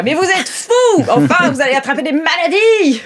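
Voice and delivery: alarmed guide. Acted. GM voices the guide scolding the players, high outraged cry. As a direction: scold them as a horrified guide. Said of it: "La guide qui est là".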